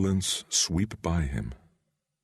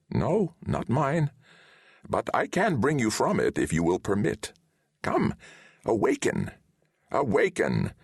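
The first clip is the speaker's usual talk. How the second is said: a lightly voiced old wizard, gently correcting; a hint of a wise old sorcerer; 8 semitones higher than usual. A narrator's reading. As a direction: Deliamber speaks to Valentine in the dream. Wizard summons him awake.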